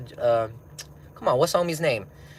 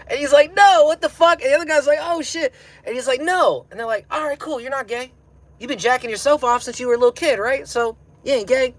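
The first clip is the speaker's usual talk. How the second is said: much higher, words squeezed out through laughter; laughing through story; 13 semitones higher, 6 dB louder than usual. Real, not acted. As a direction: tell the punchline while barely holding in the laugh. Retelling punchline while cracking up.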